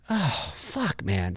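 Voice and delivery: a deflated groan of resignation; dismayed mutter. Retold or imitated. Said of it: "I'm just like".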